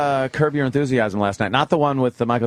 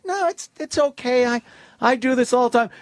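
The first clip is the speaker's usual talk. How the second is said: mock Buckner; 10 semitones higher than usual. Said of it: "He goes".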